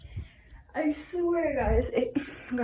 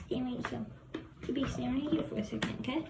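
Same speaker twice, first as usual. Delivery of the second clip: whispered command to a dog; 7 dB quieter, faster than usual. Real, not acted. Telling the dog to stay.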